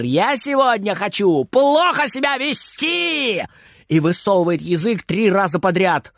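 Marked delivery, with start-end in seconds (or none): 0.0-3.4 higher, slower cheeky clowning; pulling faces. A narrator's reading. Boy clowns around for granny, higher and cheeky. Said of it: "кривляется Фридер".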